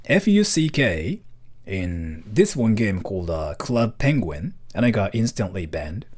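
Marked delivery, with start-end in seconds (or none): 0.0-1.2 spelled out slowly. Shown as a demonstration. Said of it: "I cannot say the word".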